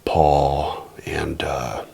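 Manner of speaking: whispered, low and hesitant; timid whisper. Shown as a demonstration. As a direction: shrink away like you're scared to call. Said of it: "No, you mean to be".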